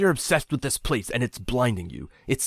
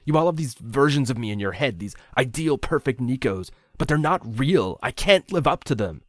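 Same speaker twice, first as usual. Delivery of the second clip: spat bitterly; 7 semitones higher, 4 dB louder than usual. A narrator's reading. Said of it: "he spat".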